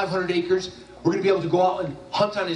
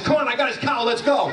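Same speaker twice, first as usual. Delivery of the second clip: higher, laughing "Come on, I got his cow"; gleeful friend; 6 semitones higher than usual. Retold or imitated. Friend turning the joke back on the speaker, gleeful and laughing. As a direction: play the prank back on him with delight.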